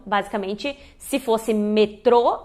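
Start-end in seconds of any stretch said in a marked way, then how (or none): 1.5-2.4 "metrô" as me-TRO; stress on the O. Shown as a demonstration. Teacher shows the hypothetical form, "metrô" stressed on TRO. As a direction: slowly land on the final O of "metrô". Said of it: "teria um acento agudo ali".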